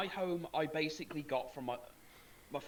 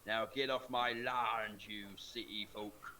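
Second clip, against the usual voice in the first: slow gruff farmer, fading low; Farmer Palmer voice; 5 semitones lower, slower than usual. Retold or imitated. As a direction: drawl it out then let it drop.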